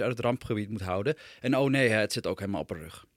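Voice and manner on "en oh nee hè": dismayed surprise. Acted. Discovering poop on daughter's back.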